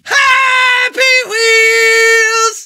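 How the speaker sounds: long, stretched-out yell of the show name; drawn-out shout. Acted. A YouTuber yelling his show intro at the fans. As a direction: bellow it slowly and hold every vowel.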